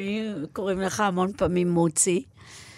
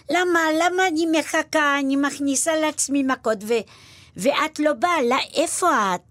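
mock martyrdom, a guilt-tripping mother; mother scolding her daughter for not coming home; exasperated Polish mother; 5 semitones higher than usual. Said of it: "אמא פולניה וככה".

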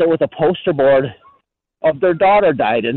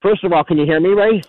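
while running; 3 semitones higher than usual. Real, not acted. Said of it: "I'm jogging right now".

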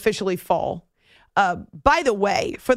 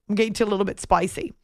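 put-on Aussie accent; 3 semitones lower, much faster than usual. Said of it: "like an Aussie accent".

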